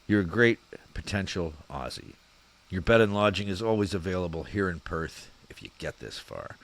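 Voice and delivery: half-convincing, badly imitated Aussie; terrible Aussie accent. Podcaster reading an invite to Perth in a poor Aussie accent. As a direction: have a go at an Australian accent. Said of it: "My fucking terrible Aussie accent, but I'll try".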